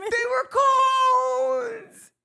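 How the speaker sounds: high laughing shriek. Acted. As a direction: wail it out through laughter. Shrieking joke line.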